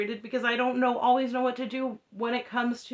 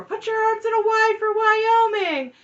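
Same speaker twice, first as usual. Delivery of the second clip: high, slow, squeaky put-on voice; exaggerated high mock impression; mocking Robin; 14 semitones higher, 7 dB louder than usual. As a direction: mimic her in a much higher, drawn-out voice. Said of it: "this is where we get the line for".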